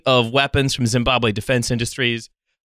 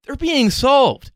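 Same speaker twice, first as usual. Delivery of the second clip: dramatic; 10 semitones higher, slower than usual. Real, not acted. Dramatic rising announcement.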